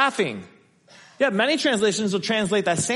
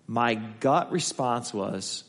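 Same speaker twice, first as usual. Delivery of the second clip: hushed confession; 7 semitones lower, 7 dB quieter, slower than usual. Retold or imitated. Pastor quoting testimony, intense hush.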